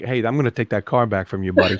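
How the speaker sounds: put-on tough-guy New York accent. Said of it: "that New York side of your brother coming out".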